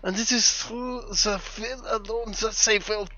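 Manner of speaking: put-on German accent. Keeps reading the sword book to friends, playful German accent. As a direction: ham up a German sage reciting wisdom. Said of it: "enjoying the German accent a lot".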